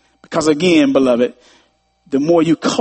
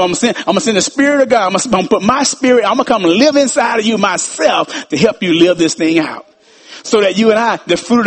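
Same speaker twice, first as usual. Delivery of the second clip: preaching shout; 3 semitones higher, faster than usual. Real, not acted. Preaching at full force.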